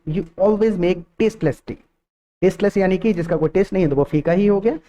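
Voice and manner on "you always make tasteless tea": very slow, word by word; slow model sentence. Shown as a demonstration. Teacher modelling an English sentence, very slow. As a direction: set out each word for the class. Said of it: "सोचना पड़ेगा".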